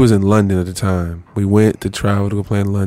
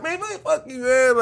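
dismissive curse; 6 dB quieter than usual. Retold or imitated. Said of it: "I threw the pound".

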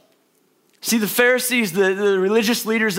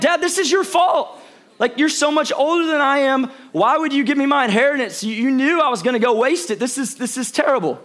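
mock blaming son; 3 semitones higher than usual. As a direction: pout like a spoiled son blaming dad. Son blaming his father, acted.

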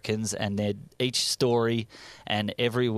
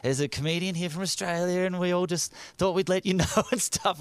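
higher-pitched imitation of a loudspeaker announcement; mock store announcement; 8 semitones higher than usual. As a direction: imitate supermarket staff announcing a visitor. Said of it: "made an announcement over the speaker".

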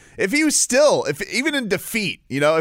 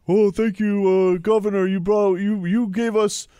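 mock gratitude; 4 semitones higher than usual. Mock thanks to a fight promoter.

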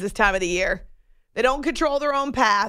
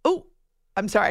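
usual speaking voice

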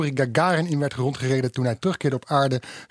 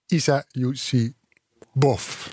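Isa Yusibov drawn out very slowly; careful, much slowed "Isa Yusibov"; misplaced name stress; much slower than usual. Real, not acted. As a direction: spell out "Isa Yusibov" haltingly, piece by piece. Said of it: "de klemtoon".

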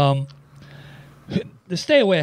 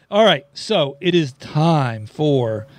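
slow booming announcer voice, a light take; monster truck voice; much slower than usual. Pretend. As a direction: stretch it out like a monster truck promo. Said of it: "put on my monster truck voice".

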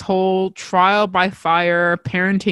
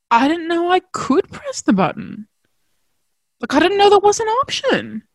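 mild exasperated protest; 11 semitones higher than usual. Retold or imitated. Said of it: "And I said to her".

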